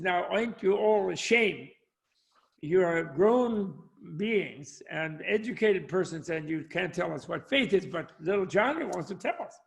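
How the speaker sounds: mildly scolding Southern preacher; a touch of Southern pulpit reproach; American Southern accent. Acted. Preacher shaming his silent congregation, lightly Southern accent. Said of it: "going into an American Southern accent".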